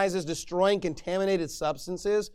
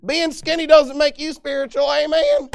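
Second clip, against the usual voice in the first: imitating Tony Hudson; 8 semitones higher, 9 dB louder than usual. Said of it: "He's like".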